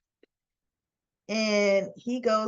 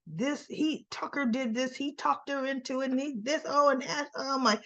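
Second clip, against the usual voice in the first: mild mock rant; 5 semitones higher, 3 dB quieter than usual. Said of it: "he's just so up in arms".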